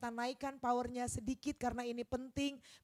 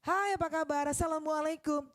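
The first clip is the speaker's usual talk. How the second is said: sapaan outdoor; 4 dB louder than usual. Shown as a demonstration. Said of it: "Kalau di outdoor, seperti itu boleh".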